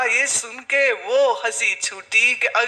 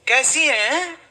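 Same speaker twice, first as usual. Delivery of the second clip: snide question; 4 semitones higher, slower than usual. Retold or imitated. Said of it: "सीधी तो बात करनी नहीं ना कोई".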